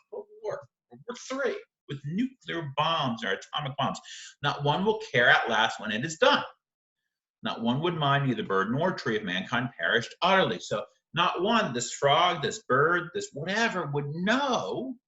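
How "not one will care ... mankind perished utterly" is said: a lightly measured recital of the verse; poem reading. Acted. Teacher rereading lines for students, in a light measured recital.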